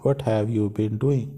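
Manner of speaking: each word drawn out slowly and clearly; slow it down so students can follow; slow model reading. Shown as a demonstration. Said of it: "यही meaning यहाँ पे सही लग रहा है".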